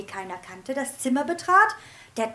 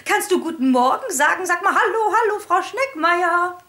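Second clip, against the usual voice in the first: high, loud sing-song coaxing with a laugh; high, laughing teacher coaxing a parrot; 6 semitones higher, 6 dB louder than usual. A narrator's reading. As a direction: coax the parrot to talk.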